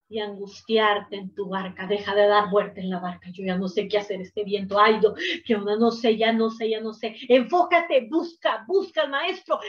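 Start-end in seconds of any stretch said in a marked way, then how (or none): 3.3-7.1 lower, fretful rambling of someone lost; a touch of a flustered, anxious believer; mock despair. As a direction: mutter helplessly in circles. Mocks a panicked person in boat.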